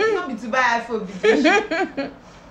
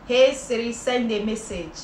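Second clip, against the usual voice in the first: Oyibo accent. Shown as a demonstration. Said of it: "Use Oyibo voice".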